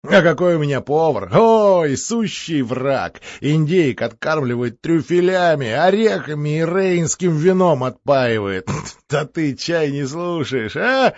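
lively, boastful count voice; a hint of a boastful count. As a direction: brag like a merry Moscow count.

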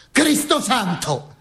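shocked priest. Retold or imitated. A partisan priest reacts to the exposed girl. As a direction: gasp it like a startled priest. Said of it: "disse un prete".

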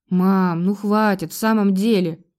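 ordinary delivery, nothing marked

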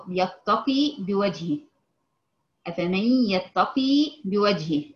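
يتقي said slowly with a long ya; lengthened ya. Shown as a demonstration. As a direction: stretch the ya in يتقي. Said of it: "بمد الياء".

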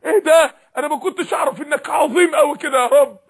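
stunned cry of realization; acted astonishment. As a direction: act out being caught unawares, awestruck. Acting out dawning awe before God.

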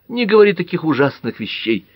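high-pitched distressed plea; moaning. A narrator's reading. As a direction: plead as if moaning. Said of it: "простонала тётя". (умоляюще, почти со стоном)

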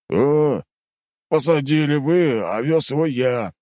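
slow, grumbling retort; grumbled. Acted. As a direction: grumble it, a bit put out. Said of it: "буркнул третий".

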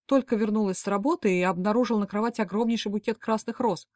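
ordinary delivery

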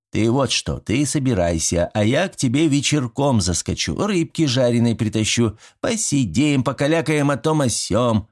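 put-on a sly old man coaxing his neighbor; folksy old villager. Old Mitrich inviting Yegor over for fish, chatty and folksy.

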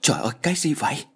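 fast, breathless frightened whisper; panicked whisper. Acted. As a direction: gasp it out in a scared whisper. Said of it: "Tôi hốt hoảng nói". (thì thầm hốt hoảng, nói nhanh)

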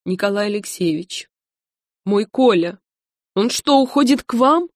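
a scared wife blurting it out; fearful, voice climbing; open fear. A narrator's reading. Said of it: "неприкрытый страх".

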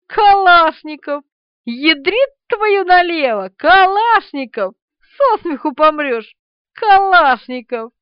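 loud, high, slow hooting over the name; gleeful laughing shouts. A narrator's reading. Thug laughing loudly at Kalashnikov's surname. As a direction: roar with amused delight. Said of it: "и счастливо засмеялся".

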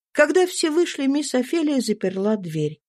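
ordinary delivery

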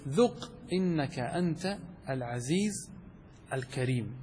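slow, sinking, sarcastic reading; quiet ironic recitation, slowing down; slow mocking recitation. Shown as a demonstration. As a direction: let the verse drip with irony. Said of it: "على سبيل التهكم".

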